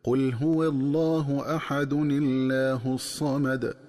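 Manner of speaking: slow Quranic recitation, nun of tanween given kasra into Allah; joined recitation. Shown as a demonstration. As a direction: recite قل هو الله أحد الله الصمد slowly, linking أحد الله as ahadun-illah. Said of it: "تكون القراءة هكذا".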